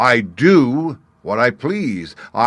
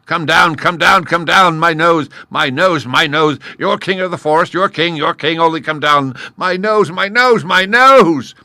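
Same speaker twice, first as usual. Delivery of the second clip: much louder, much higher pained wail; moaning lion; 10 semitones higher, 11 dB louder than usual. A narrator's reading. Stung lion begging the gnat to come down, wailing. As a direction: beg in pain, over and over. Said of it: "the lion began to moan".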